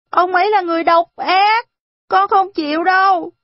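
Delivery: put-on high, loud child's outcry; child's protest. A narrator's reading. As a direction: protest like a stubborn little boy. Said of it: "Arthur kêu lên". (trẻ con kêu lên phản đối, giọng cao và to)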